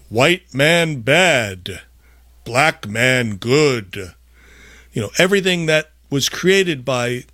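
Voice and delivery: a hint of an Indian accent, mocking. Podcast guest mocking a caricature in an Indian accent. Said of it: "an Indian voice".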